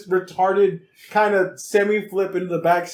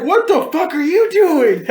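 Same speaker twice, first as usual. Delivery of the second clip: stifled laugh; 8 semitones higher, 4 dB louder, slower than usual. Retold or imitated. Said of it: "he's trying not to laugh".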